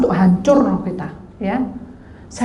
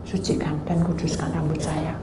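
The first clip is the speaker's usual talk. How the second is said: soft, low murmured prayer; doa; 3 semitones lower, 7 dB quieter than usual. Retold or imitated. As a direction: pray under your breath. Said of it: "saya berdoa". (berdoa lirih, setengah berbisik)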